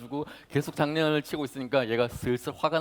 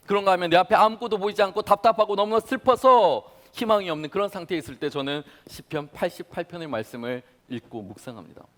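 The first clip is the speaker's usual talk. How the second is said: ordinary talk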